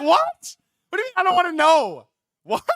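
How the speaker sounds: very high, loud disbelief; mock-freaked-out high shout; incredulous outburst. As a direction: squawk it in hammed-up shock, fast. Reacts stunned to ominous answer.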